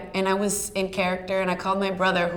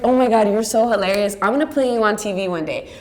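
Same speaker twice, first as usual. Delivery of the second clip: excited laughing praise; 2 semitones higher, 6 dB louder than usual. Retold or imitated. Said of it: "And I was like".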